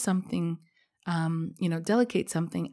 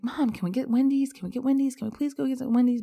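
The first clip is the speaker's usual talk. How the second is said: put-on much higher, pleading little kid voice; childish begging; 7 semitones higher than usual. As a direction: whine it like a seven-year-old begging. Child begging mom for Wendy's.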